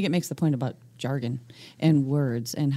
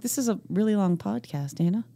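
Scranton accent; 4 dB quieter than usual. Shown as a demonstration. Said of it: "well known in the region is saying, "Hey na".

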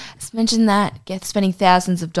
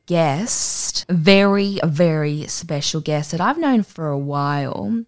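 slow drawn-out hype for the guest; announcer intro; slower than usual. Acted. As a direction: stretch out very special like a showman.

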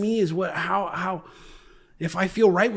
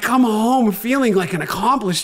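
laughing; 4 semitones higher, 5 dB louder, slower than usual. Real, not acted. Proud of painting, laughing.

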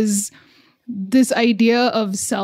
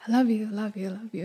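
softly repeated love you; 9 dB quieter, much faster than usual. Retold or imitated. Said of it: "doing this little "I love you" dance".

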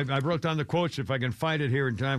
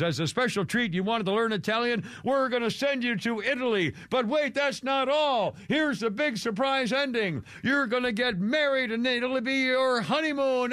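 milk the big surprise like a TV host; hammed-up game show host; 6 semitones higher than usual. Mocking the TV host announcing the honeymoon, hammed-up. Imitating host's big reveal.

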